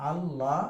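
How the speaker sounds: আল্লাহ with the ল sounded twice, closing "al" and opening "la"; doubled lam. Shown as a demonstration. Teacher showing pupils the doubled letter, আল্লাহ said with a double ল. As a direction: say আল্লাহ as two parts, al-la, holding the double ল. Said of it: "দুইবার লাম উচ্চারণ হলো".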